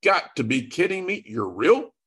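high, amazed you've got to be kidding; amazed disbelief. Retold or imitated. Looking up to God in amazement after hearing of the miracle. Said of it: "I looked straight up and I went".

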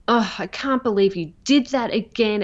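sneering, sarcastic jab at yourself; mock the listener with a curled lip; a snide little scolding voice; sarcastic inner critic. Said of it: "a very sarcastic, snarly, lip curly".

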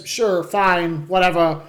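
lightly voiced Walken, halting and deadpan; a hint of Christopher Walken, like a dying robot; Christopher Walken impression. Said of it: "my best Christopher Walken impression".

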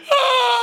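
sudden high loud sobbing cry. Retold or imitated. Man overwhelmed at the altar, crying out high and loud.

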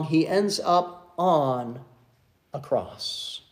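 slow, low, falling to near whisper; solemn hush. Real, not acted. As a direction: let it sink softly, with a weighty pause. Solemn close of the point.

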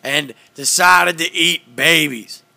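Alex Jones impression. Doing Alex Jones for friends on a podcast, mild loud rant. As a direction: rant on with mock certainty. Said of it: "This is Alex Jones reporting to you".

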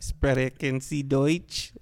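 drawn-out German with a flourish; playful stagey German question; mock German accent. Showing off languages in turn.

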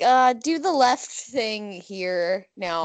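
slow, unsure navigation voice; hesitant GPS. Pretend. Co-host playing a hopeless GPS giving directions, slow and hesitant. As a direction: give vague directions, dragging it out. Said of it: "if you need Nick to be your, um, G P S".

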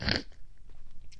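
rough throat clearing. Real, not acted. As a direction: clear your throat hard. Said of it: "oh my gosh, ew".

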